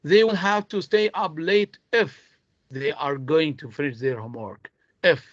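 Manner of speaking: "if" stressed, then a pause after it. Shown as a demonstration. Teacher stressing important words, weight on "if". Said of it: "I'm stressing on, uh, words which are very important".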